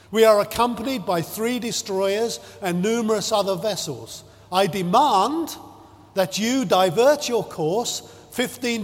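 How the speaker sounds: mock captain building from firm to a near shout on demand. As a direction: escalate the bluster line by line. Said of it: "now getting louder and louder".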